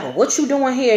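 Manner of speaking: imitated no-nonsense mom; stern mother. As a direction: demand an answer like a strict mom. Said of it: "this stern ass voice".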